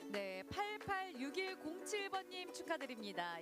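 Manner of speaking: high, bright winner reveal; booming prize announcer. Real, not acted. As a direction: call out the winner with flair. Live prize draw winner reveal.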